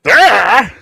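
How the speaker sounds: loud, high cry of "bah"; sudden loud character outburst; startled "bah". Acted. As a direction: blurt it out as a big yelp. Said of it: "Fizz is like".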